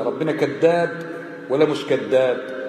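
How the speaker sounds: slow Egyptian Arabic question; Egyptian dialect. Retold or imitated. Debater challenges the Christian in Egyptian dialect, slow. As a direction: ask it slowly the Egyptian way. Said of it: "بالمصري يقول له".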